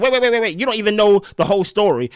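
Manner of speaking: excited protest. Retold or imitated. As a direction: cut him off, mock-urgent. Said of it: "And Amaya's like".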